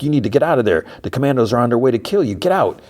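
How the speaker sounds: acted-out urgency, rising on the last order; urgent warning. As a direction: warn her urgently, pitch up. Urgent warning over the phone.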